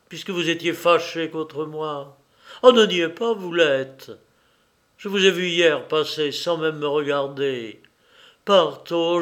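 put-on a young pupil begging his teacher to leave; pleading youth. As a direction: implore him, voice straining. Stéphane pleads with his master.

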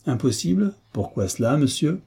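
sharp, high incredulous question; dry, high demand; curt. Acted. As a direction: snap the question back dryly. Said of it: "demanda sèchement".

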